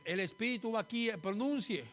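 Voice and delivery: mildly acted order to pronounce it properly; correcting Greek teacher. Greek teacher telling the pupil where it goes, lightly acted correction. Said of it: "El griego no se le llama acento".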